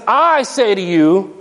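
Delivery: I leaned on, slow and deliberate; emphatic I. Retold or imitated. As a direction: put full weight on the I. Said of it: "Jesus says".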